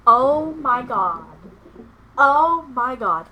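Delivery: loud, high, drawn-out cry of shock; real overwhelmed wail, slow and loud; overwhelmed, near tears. Real, not acted. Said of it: "I'm gonna cry".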